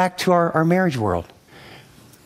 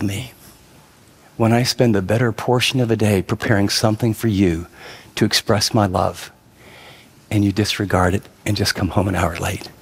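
calm, teary wife; 7 semitones lower than usual. Retold or imitated. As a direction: gently tell him the dinner was a gift. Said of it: "she looks at me very calmly".

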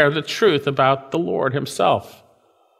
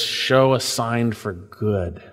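slow, lower, earnest "Show a sign for good"; humble petition; 3 semitones lower, much slower than usual. Retold or imitated. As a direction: ask it gently and trustingly. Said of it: "He's God's man, a man after God's own heart".

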